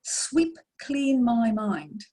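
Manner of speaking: slow, deliberate inner plea; slow calm prayer. Retold or imitated. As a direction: ask slowly and calmly, like a prayer. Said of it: "I used to say to the spirit world".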